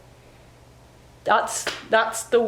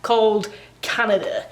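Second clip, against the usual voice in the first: Welsh-tinged accent; 2 semitones higher than usual. Real, not acted. Vlogger greets folks after binge-watching a Welsh couple, Welsh-tinged accent. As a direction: drift lightly into a Welsh accent, stretching key words. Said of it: "I'm trying to imitate a Welsh accent".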